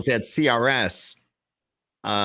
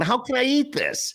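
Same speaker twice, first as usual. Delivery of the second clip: mock disgust. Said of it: "I'm going".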